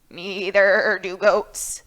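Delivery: put-on old goat. Old Goat voiced in story.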